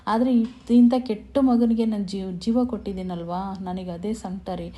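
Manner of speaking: acted anguish in swelling bursts; storyteller's impassioned, mildly plaintive outpouring; retold tearful lament. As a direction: plead as the distressed mother-in-law, without real tears. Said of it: "ಅಂತೇಳಿ ಪಾಪ ಅಳ್ತಾ ಇರ್ತಾರೆ".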